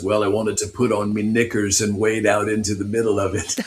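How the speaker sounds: prince putting on a light Cockney accent, retold; jokey Cockney accent, lightly imitated. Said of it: "he gets this Cockney accent".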